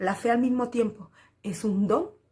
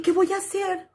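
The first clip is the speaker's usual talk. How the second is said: anguished question; 9 semitones higher, 5 dB louder than usual. Retold or imitated. Despairing question left alone.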